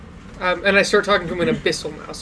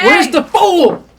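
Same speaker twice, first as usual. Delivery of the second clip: big drawn-out shout for the fool; booming slow shout; loud call; 9 semitones higher, 8 dB louder, much slower than usual. Acted. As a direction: call out slowly across the room. Fool character entrance shouted.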